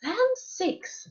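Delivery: high, scandalized bear exclamation; middle-sized Mama Bear voice. A narrator's reading. Mama Bear finds someone has been there, middle-sized voice. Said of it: "in her middle-sized voice".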